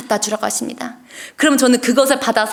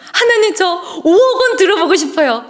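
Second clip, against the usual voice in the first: high, louder, eager blurt; eager vow; 8 semitones higher, 4 dB louder than usual. Retold or imitated. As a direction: let the wish burst out before you think. (들뜬 목소리로 불쑥 서원하듯)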